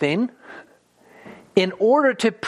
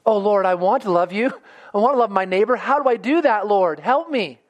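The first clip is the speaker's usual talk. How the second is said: higher, earnest plea to God; a believer asking Jesus for help, pleading; pleading prayer; 3 semitones higher than usual. Retold or imitated. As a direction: ask for help like a child asking. Preacher voicing an earnest prayer.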